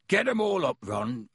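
a friendly giant welcoming guests in; half-giant host greeting visitors at the door; Hagrid voice. Acted. Hagrid urging Ron.

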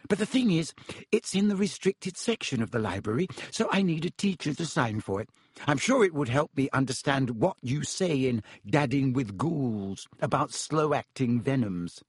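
lightly voiced anxious student; nervous schoolgirl. Schoolgirl flatters professor to get his signature, nervously. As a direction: coax the teacher, a little nervously.

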